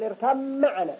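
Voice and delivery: "اركب معنا" as irkam-ma'ana with a long hummed m; assimilated ba. Shown as a demonstration. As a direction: turn b into a held m in "اركب معنا". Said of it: "الثالث مخرج الميم والباء". (إدغام باء "اركب" في ميم "معنا")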